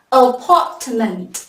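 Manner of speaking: slow "Apartment" with a crisp final t; clear final t. Shown as a demonstration. Teacher drilling the class on final sounds, clear final t in "Apartment". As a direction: sound out "Apartment", releasing the t at the end. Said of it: "chú ý những âm cuối".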